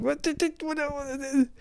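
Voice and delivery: very high, soft stammer of disbelief; hammed-up confusion in a tiny high voice; baffled squeak. Mimics his baffled reaction, high-pitched.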